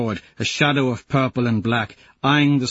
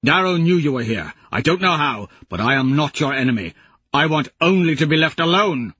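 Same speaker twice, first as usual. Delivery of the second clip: louder, higher earnest plea; a hint of a weary old warrior; old man begging to be left alone; lightly voiced old Lorn; 5 semitones higher, 3 dB louder than usual.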